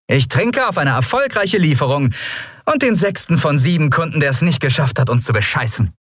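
high, jaunty toast; captain toasting her crew, high and wry. A narrator's reading. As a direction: raise the mug with a wry grin.

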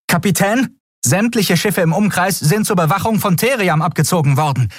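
high, crisp report; female comms officer. Acted. Comms officer reporting to the captain, high and crisp. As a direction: report the bad news. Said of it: "erklärte die menschliche Kommunikationsoffizierin".

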